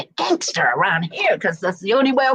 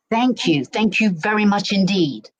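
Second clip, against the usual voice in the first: polite English "Thank you very much indeed"; proper English. Shown as a demonstration. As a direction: say it properly, full English sentence. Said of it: "when you're in England, you gotta say".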